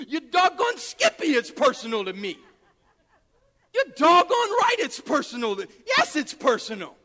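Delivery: indignant, pitch leaping up then dropping; emphatic retort. Acted. Preacher answering people who question his passion, emphatic retort. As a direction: fire back, punching DOGGONE and YES.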